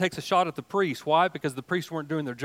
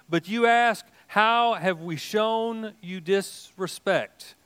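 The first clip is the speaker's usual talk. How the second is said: lightly raised, slow, reproachful God voice; the Lord rebuking his priests, a touch of pleading; 5 semitones higher, slower than usual. Acted. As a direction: read God's words with a hint of rebuke. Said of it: "The Lord all-powerful says".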